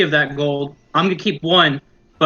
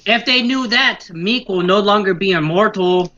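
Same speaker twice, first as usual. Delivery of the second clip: goblin muttering aloud; 3 semitones higher, slower than usual. Acted. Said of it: "he's gonna say it somewhat out loud".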